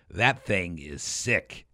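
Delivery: slow, drawn-out mock slang; twenty-year-old slang. Older man reading a sledder's ad line, mock twenty-year-old slang. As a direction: imitate youth slang, stretched out slowly. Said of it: "like a twenty-year-old would say".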